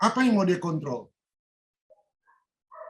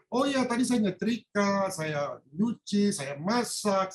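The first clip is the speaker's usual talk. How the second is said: aloof; 2 semitones higher, slower than usual. Retold or imitated. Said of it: "istrinya bilang".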